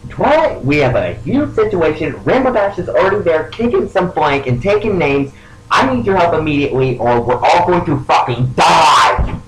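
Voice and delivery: urgent yell. Acted. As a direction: call out in alarm, pitch jumping up. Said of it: "I yell out".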